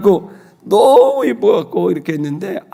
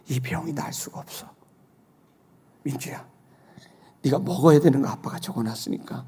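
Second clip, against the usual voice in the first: tender hushed talk; 3 semitones lower, 9 dB quieter than usual. Retold or imitated. Father gently tells daughter her illness.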